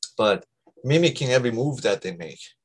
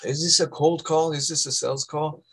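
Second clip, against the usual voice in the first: suspicious prospect; 5 semitones higher than usual. Retold or imitated. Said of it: "the prospect goes".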